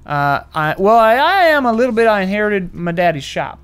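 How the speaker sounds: small-town Kansas local talking; plain-spoken Kansas accent, lightly played. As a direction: try a Southern Kansas accent without mocking it. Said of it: "we're just trying to accent something".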